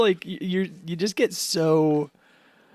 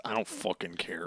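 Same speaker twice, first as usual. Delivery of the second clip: low flat Sanji; 8 semitones lower, 10 dB quieter than usual. Retold or imitated.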